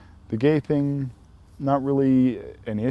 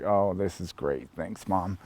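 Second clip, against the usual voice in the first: slow, low dry sarcasm; deadpan it under your breath; sarcastic aside; 3 semitones lower, 6 dB quieter, slower than usual. Retold or imitated. Embarrassed son mutters thanks to his shouting mom, dry and sarcastic.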